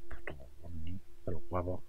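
whispered, low curse; cursing under breath. Real, not acted. Right after failing.

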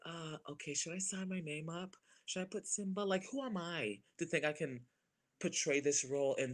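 lightly acted timid questioning; hesitant self-doubt. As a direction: wonder it aloud, unsure of yourself. Voices own self-doubt before signing up.

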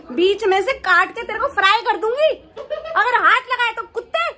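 mock threat. Mock threat to future husband.

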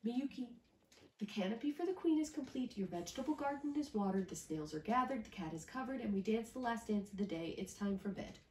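tired, worn-out grandfather listing chores; a touch of weariness in the grandfather's list; weary grandfather. Acted. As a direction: sound like a tired old man ending the day. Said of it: "Grandfather said wearily".

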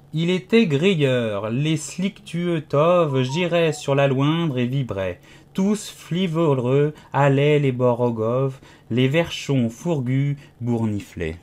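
slow, measured verse reading; poem recitation. A narrator's reading. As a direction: recite the nonsense verse deliberately, word by word. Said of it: "Alice récita la première strophe". (récitation lente d'un poème)

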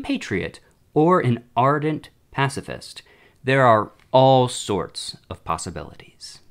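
measured dramatic reading of a letter; letter read aloud. Acted. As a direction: read it out formally, phrase by phrase. Reads a demon's letter aloud.

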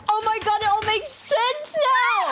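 hammed-up "it all clicks" moment; mock revelation. Sudden realization about Asterion.

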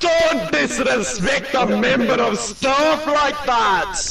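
put-on British accent. Staff member warning someone cheeky, mock-stern British accent. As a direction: play an affronted British staffer giving a warning. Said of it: "I've got a bit of a British accent".

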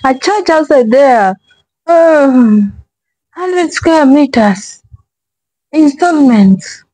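parroting the clip with a mocking deadpan; drawn-out sarcastic imitation of a news read; mock straight face. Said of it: "with that straight face".

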